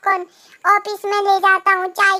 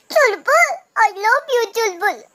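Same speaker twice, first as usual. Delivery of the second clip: lovesick sweet talk; 3 semitones higher than usual. Acted. Lovesick call to girlfriend.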